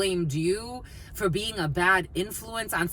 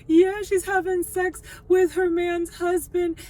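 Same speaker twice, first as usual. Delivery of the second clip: higher, louder, slow gossipy voice; imitating the friend; 10 semitones higher, 5 dB louder than usual. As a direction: confirm the scandal like the friend did. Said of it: "She's like".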